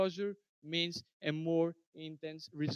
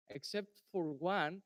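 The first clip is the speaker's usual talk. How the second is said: too quiet; 7 dB quieter than usual. Real, not acted. Presenter qualifies an answer to the questioner, too quiet. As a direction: say it softly, without projecting. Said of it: "Can you please speak louder?".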